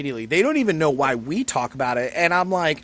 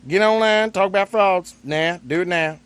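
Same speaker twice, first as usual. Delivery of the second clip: louder, higher barked order; drill instructor; 4 semitones higher, 3 dB louder than usual. Acted. Echoing his friend's order as a louder drill instructor. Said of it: "sounds actually more like my drill instructor".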